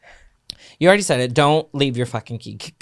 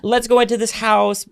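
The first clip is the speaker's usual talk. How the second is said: high sugary client greeting; gushy realtor greeting; 12 semitones higher than usual. Retold or imitated. Realtor gushing to clients on arrival, high and sugary. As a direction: gush at the clients like a fake-sweet realtor.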